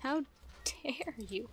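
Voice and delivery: soft whispered repeat. Real, not acted. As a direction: hiss it under your breath. Repeats mock outrage softly.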